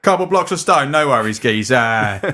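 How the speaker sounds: put-on Cockney accent. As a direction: play an easy-going Cockney geezer, stretching the end. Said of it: "a Cockney accent".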